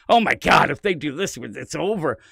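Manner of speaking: mock panic, loud on the first cry; retold freak-out. Reviewer voicing Persephone realizing they could lose, mock freak-out. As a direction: burst out in mild alarm, then settle. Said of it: "I think she's freaking out".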